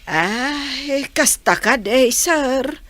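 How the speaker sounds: slow pleading with crying; tearful plea. Acted. Mother begs the engineer to help her child, crying. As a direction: beg through tears, slowly.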